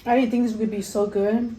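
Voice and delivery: talking while chewing; chewing noisily. Real, not acted. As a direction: mouth full of food. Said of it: "I'm not even eating".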